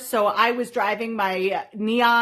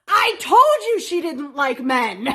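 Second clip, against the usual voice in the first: louder, laughing told-you-so; imitating dad; 4 semitones higher, 5 dB louder than usual. Dad telling mom he knew, louder and laughing. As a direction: play dad smug and amused. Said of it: "And Dad turns around and goes".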